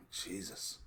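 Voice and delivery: breathy whispered "Jesus"; exasperated whisper; whispered aside. Real, not acted. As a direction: whisper it under your breath in disbelief. Muttered aside over expenses.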